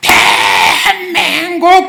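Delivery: high, full-force belly yell, full of longing. Showing how to shout 대한민국 with all your strength, shouted with full force. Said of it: "뱃속에서부터 있는 힘을 다해서 간절한 염원을 담아가지고서".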